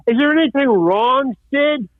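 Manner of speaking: high-pitched mock yell to a colleague; imitated yell. Cameraman yells over to Sid on set, mock yelling. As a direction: call it out high, like a crew member. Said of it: "the cinematographer yells".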